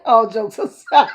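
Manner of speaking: said through laughter; laughing as she tries to move on; giggly aside. Real, not acted. Laughing while trying to get serious.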